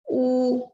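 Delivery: "o" followed by a strong breathy throat R; regional guttural R. Shown as a demonstration. Teacher demonstrates the Rio and Northeast R, guttural sound. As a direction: push out the R after "o" as a rasping h. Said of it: "tendem a pronunciar".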